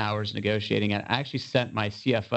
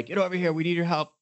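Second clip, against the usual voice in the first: higher-pitched urgent call for help; mildly frantic, pitched-up plea; frantic plea, retold; 6 semitones higher, faster than usual. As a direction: re-enact a panicked phone call.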